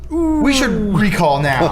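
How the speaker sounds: high, loud, slow mock executive. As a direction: announce it like a grave boss. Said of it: "and they said".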